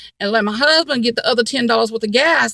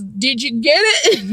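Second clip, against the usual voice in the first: hollering; slower than usual. Retold or imitated. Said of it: "I hollered back at Ronald".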